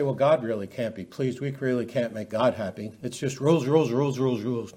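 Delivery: low, resigned mock complaint; lightly voiced complainers. Preacher quoting people who say God can't be pleased, mock grumble. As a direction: drop low and chant the repeated word wearily. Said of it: "talk to people that say".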